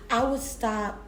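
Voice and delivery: slow, emphatic affirmations to repeat; spoken affirmation. Shown as a demonstration. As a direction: lead them line by line in affirmations. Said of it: "So repeat after me".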